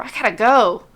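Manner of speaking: anxious repeating. Acted. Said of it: "saying over and over".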